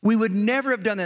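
high, quick mock outrage; indignant protest. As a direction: lightly act the brothers' indignant denial. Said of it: "indignant at this guy".

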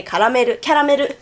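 "karameru" with tapped r, ka-ra-me-ru; Japanese pronunciation. Shown as a demonstration. Showing the Japanese word "karameru", tapped r's. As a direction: say "karameru" in even Japanese syllables. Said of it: "In Japan, we say".

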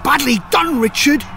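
high, loud excited shouts of a battle seen afar; calling out. A narrator's reading. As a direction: cry out the names as if watching the fight. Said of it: "suddenly called out".

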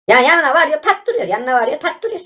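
high-pitched frustrated complaint, voice cracking on pat; real exasperation, pitch jumping up; exasperated whine. Real, not acted. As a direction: whine it like the game is cheating you. Complaining the wheel mocks him.

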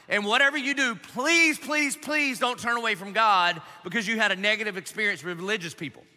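heartfelt pastoral plea; earnest plea. Real, not acted. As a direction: beg them not to walk away. Pleading with listeners, please repeated.

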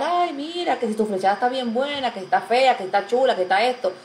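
high, fast, nosy mock commenter voice; mocking gossipy commenter. Host mocking gossiping viewers, high and mocking. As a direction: mimic a catty viewer prying about the date. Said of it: "como la gente siempre tiene que comentar".

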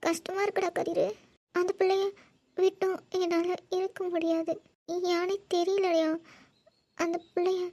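tearful mother pouring out hurt; halting, weepy phrases broken by pauses; crying. Acted. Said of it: "இதுக்கா அழுவுறீங்க?".

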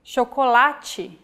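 chocolate with CH said like SH. Shown as a demonstration. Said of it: "we have the sound".

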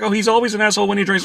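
high, fast, offhand; mock casual reply. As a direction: toss it off like it's obvious. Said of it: "It's like".

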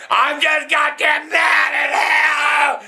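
slow, drawn-out angry shout; mad yelling. Real, not acted. Old man at his family, slow angry shout. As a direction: drag it out in fury.

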